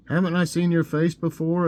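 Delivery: loud, high demanding judge. Acted. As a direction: play a stern judge demanding. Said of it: "a judge demanded".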